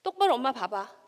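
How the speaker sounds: firm at first, then building to a loud, high angry scold; scolding her son. Retold or imitated. Mother reenacting how she scolded her crying son, building from stern to a loud rebuke. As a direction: start stern, then blow up at the child. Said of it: "이렇게 얘기했습니다".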